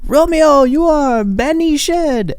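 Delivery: high, slow, theatrical Shakespeare actor voice; mock Shakespearean accent. Quoting the Romeo and Juliet movie, hammed-up Shakespearean accent. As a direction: ham it up like an old-film Romeo. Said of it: "I don't know what accent that was".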